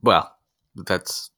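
hesitant, underwhelmed reply; halting, unenthusiastic hedging; unexcited. Real, not acted. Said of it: "hear the excitement in your voice".

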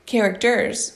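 "Characters" with its final S stressed; emphasized S. A narrator's reading. Louis corrects Harry, stressing the S in "Characters". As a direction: lean on the closing S of "Characters". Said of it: "emphasizing the S".

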